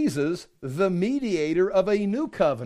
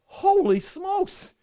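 much higher, slow amazed exclamation; astonished; 10 semitones higher, much slower than usual. Real, not acted. Preacher reacts to the harsh law, drawn-out astonishment. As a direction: gasp it out in disbelief.

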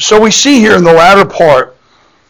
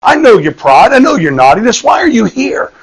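lightly acted scolding, higher-pitched; mildly mocking challenge, pitched up; 4 semitones higher than usual. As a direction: play a big brother belittling the kid. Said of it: "started mocking him out".

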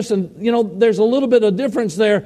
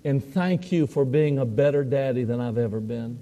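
tearful prayer; 7 semitones lower, 7 dB quieter than usual. Retold or imitated. I stretched my arms out and said.

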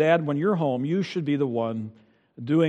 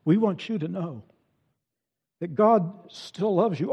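put-on higher, gentle voice telling the child he is loved; a parent's gentle higher reassurance; tender reassurance; 4 semitones higher than usual. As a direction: soothe a child after punishment.

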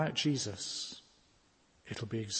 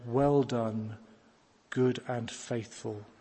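slow, weighty Well done, good and faithful; measured quote; slower than usual. Shown as a demonstration. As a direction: pause and lean on "good". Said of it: "it's that next word that says it all".

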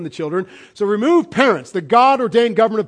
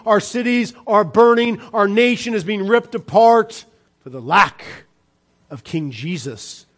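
rising preaching fervor; 2 semitones higher, 3 dB louder than usual. Real, not acted. Preacher rebukes the church.

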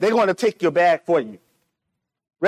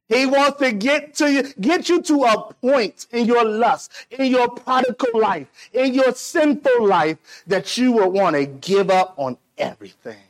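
high, driving cadence in repeated phrases; impassioned preaching; 3 semitones higher than usual. Real, not acted. Preacher warning the congregation about the devil, urgent and high. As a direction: build a warning phrase upon phrase.

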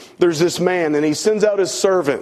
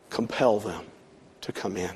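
master quietly charges servant to compel guests, much softer; hushed command; 6 semitones lower, 9 dB quieter than usual. Retold or imitated. Master's last order to servant, hushed and grave. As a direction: drop to a low, grave hush.

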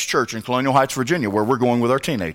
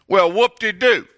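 sarcastic; 7 semitones higher, 3 dB louder, slower than usual. Real, not acted. Sarcastic reply to bragger.

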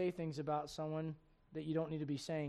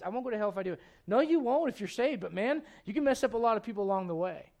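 loud, raised-pitch sermon delivery; forceful preaching; 5 semitones higher, 10 dB louder than usual. Real, not acted. Pastor urging the congregation about conscience and liberty, forceful preaching.

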